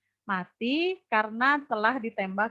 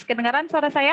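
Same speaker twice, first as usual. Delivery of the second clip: stuttering digital glitches mid-phrase; choppy breaking-up audio; 3 semitones higher, 5 dB louder, faster than usual. Real, not acted. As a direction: voice dropping out on a bad connection. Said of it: "Suaranya putus-putus".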